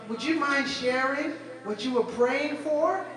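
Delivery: polite high lady. Retold or imitated. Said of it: "She goes".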